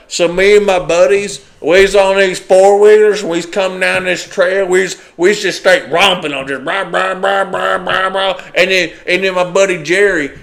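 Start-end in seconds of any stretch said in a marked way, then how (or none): 0.1-8.4 imitating a redneck. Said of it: "it's like some redneck".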